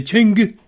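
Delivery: Chang'e said as "CHING-guh", first syllable punched; Chang'e in two syllables, stressed up front; imitated pronunciation. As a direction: copy the launch broadcast's way of saying Chang'e, "ching-guh". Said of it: "that's the way they were saying it".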